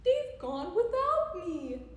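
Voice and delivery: lightly acted forlorn cry; mild crying out. A narrator's reading. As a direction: cry out as if left behind. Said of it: "And he cried".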